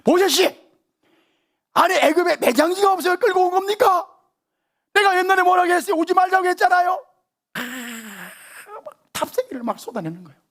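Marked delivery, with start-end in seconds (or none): 0.0-7.0 high, loud whining protest; frightened people nagging Moses; complaining Israelites. Retold or imitated. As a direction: whine at Moses in a panic. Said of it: "두려워가지고 막 모세 찾아갔잖아".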